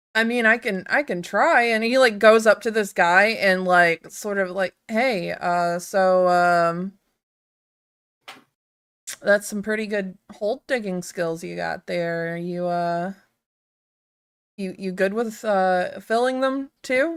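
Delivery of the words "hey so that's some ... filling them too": clumsy, halting, awkward, fumbling flirtatious delivery. Voicing a character who awkwardly flirts with a hole digger: flirting awkwardly. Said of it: "tries to flirt with him".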